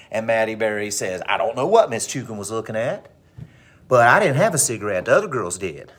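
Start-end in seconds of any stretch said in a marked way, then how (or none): 1.3-5.9 acted defensive teen denial; mouthy schoolgirl talking back; sassy attitude. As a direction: deny it with swooping, sassy intonation. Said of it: "cops the attitude".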